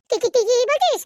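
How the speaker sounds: loud, high stammered disbelief with a laugh; stunned disbelief. Acted. Friend hears the ex really called, laughing in loud disbelief. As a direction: sputter it out, laughing in shock.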